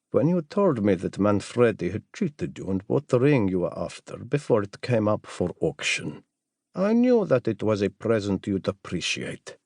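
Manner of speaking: lightly voiced assassin, composed; a hint of a character voice for the visitor. Jamal explaining his gift to the doctor, lightly voiced character.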